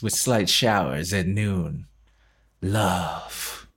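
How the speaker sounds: slow, low parody of a profound text; solemn, drawn-out mock poetry; mock-deep forecast. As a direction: read a weather report as if it were deep, then drop softly on "Love". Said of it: "try to make it deep".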